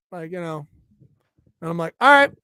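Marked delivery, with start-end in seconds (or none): 2.0-2.3 sudden loud, higher "All right."; mock exasperated shout; loud retold all right. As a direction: bark out "All right." like you've lost patience. Retold impatient reaction.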